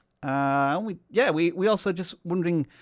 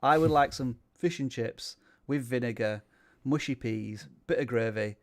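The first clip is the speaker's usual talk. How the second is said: understated Yorkshire accent, a little softer; 3 semitones lower, 3 dB quieter than usual. Shown as a demonstration. Host says fish and chips for a chat request, Yorkshire accent. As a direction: order chippy food in your Yorkshire accent. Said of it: "say fish and chips in my Yorkshire accent".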